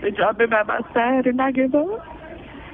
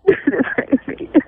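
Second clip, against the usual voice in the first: tearful gasp; 4 semitones higher than usual. Real, not acted. Breaks down during plea for help.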